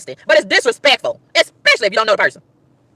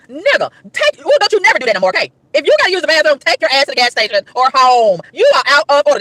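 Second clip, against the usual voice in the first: telling someone off. Retold or imitated. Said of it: "That's what I really want to say to him".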